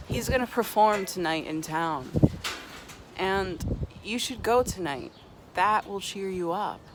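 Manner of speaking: upbeat doctor pitch. Acted. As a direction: hype up the clown show like a barker. Doctor pitching clown show, louder.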